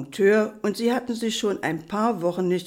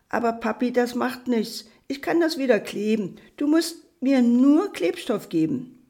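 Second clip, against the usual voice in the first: lightly voiced child, higher pitch; little boy reassuring; 5 semitones higher than usual. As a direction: play a small boy soothing his dad. Junge beruhigt den Vater. (leicht angedeutete, höhere Kinderstimme, beschwichtigend)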